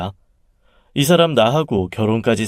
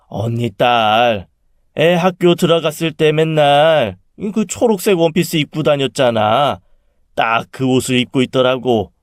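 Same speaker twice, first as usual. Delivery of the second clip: aunt revealing dream; 3 semitones higher than usual. Acted. Aunt tells her sister whom she saw, animated. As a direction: lean into the dream's big reveal.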